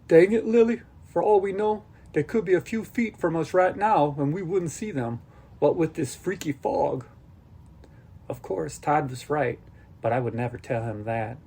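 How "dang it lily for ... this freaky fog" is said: put-on higher, louder exasperated boy; frustrated outburst. Boy Todd exasperated at Lily, fading outburst. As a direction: snap at her in frustration, then ease off.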